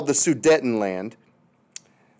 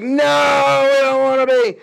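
high, louder mock Czechoslovak protest; high pleading cry; 8 semitones higher, 4 dB louder, slower than usual. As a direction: whine it high like a small country pleading. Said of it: "then they're like".

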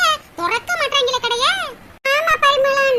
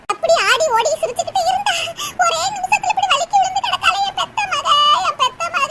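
mock wailing; 4 semitones higher than usual. Mother wails over fallen daughter.

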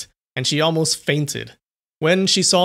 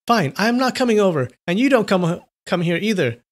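higher, shaky and pleading; trembling voice; 6 semitones higher, 3 dB louder than usual. A narrator's reading. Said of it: "with her trembling voice".

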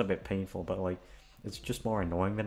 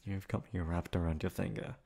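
a shy, emotional lover, happy and nervous in turn; tender girlfriend confession. Acted. Girlfriend hoping her partner means it, tender and emotional. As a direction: play the girlfriend who can't believe she's wanted.

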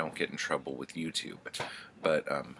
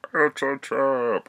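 higher, louder, slow hammed-up warning cry; alarmed shout; 10 semitones higher, 11 dB louder, slower than usual. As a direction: bellow the warning, dragging it out. Conan realises the ambush.

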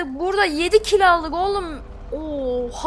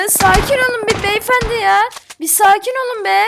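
exasperated loud plea; 4 semitones higher, 4 dB louder than usual. Real, not acted. Pleading with attacking players.

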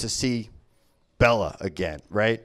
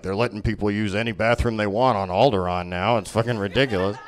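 put-on lower, grumbling bigoted old guy; grumpy Vader; 8 semitones lower, 4 dB quieter than usual. Darth Vader complaining about Alderaan, low and grumbling. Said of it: "he'd be like".

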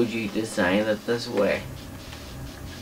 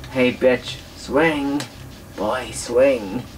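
Spidey sense voice; 3 semitones higher, much slower than usual. Retold or imitated. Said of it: "Spidey sense is letting me know".

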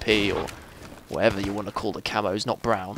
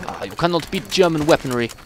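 put-on higher-pitched, muddled Russian accent; attempted Russian accent; 4 semitones higher than usual. Player praising German weaponry in game, attempted Russian accent. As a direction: lightly put on a shaky-aimed Russian accent. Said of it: "I was going with Russian accent".

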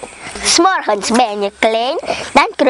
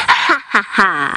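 spaced-out, read-aloud villain cackle; a deliberate, mock evil "ha, ha, ha"; nasty laugh; 3 semitones lower than usual. A narrator's reading. Forest spirit gloats over the trapped boy, mock nasty laugh. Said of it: "Ze lachte akelig".

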